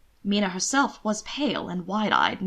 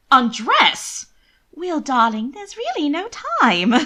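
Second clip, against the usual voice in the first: higher, louder anxious rush; hurried worry; 7 semitones higher, 6 dB louder, slower than usual. Acted. Worried sister rushing her brother, anxious and higher. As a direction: hurry him along, fretting.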